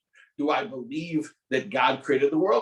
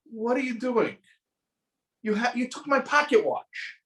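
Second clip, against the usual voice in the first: shocked confrontation; 9 semitones higher than usual. Retold or imitated. Rabbi confronts thief.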